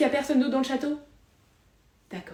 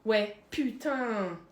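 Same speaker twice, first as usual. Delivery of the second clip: dejected resignation; 2 semitones lower, much slower than usual. Acted.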